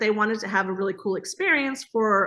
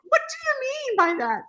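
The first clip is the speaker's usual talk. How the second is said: much higher, panicky squeak of a question; nervous wreck. Retold or imitated. Wife fretting over the new platform, nervous squeak. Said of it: "nervous wreck".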